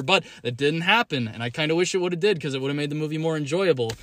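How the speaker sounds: out of breath from ranting; winded after a long rant; running out of air. Real, not acted. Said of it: "I'm running out of breath".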